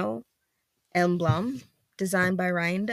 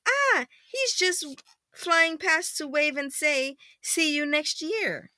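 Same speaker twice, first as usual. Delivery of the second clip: milder second reading; 9 semitones higher, slower than usual. Acted. Parent rereading flying past line, high and gentler. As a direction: start high, ease down into storytelling.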